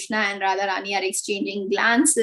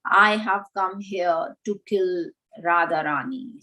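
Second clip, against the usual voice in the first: lightly voiced snake, sinking in pitch; a slight, understated snake character; 2 semitones lower than usual. Snake answering Krishna about killing Radharani, lightly voiced snake. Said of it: "responds in snake's voice".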